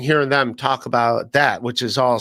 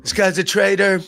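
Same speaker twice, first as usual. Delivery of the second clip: Trump impression. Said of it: "Trump's like".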